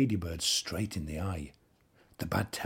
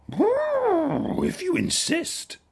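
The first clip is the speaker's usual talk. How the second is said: trumpeting elephant voice; 6 dB louder, much slower than usual. A narrator's reading. Elephant answers.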